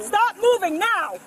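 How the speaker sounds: loud, high, slow barked order; shouted command. Real, not acted. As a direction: bark it as a stern command. Officer struggling with suspect.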